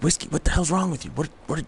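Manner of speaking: high, fast, alarmed cry at the dog; startled scolding. Retold or imitated. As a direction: retell jolting awake and yelling at the dog. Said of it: "And I'm like".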